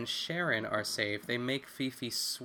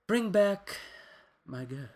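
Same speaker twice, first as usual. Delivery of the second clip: excited cheer; 7 semitones higher, slower than usual. Real, not acted. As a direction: cheer her back onto the show.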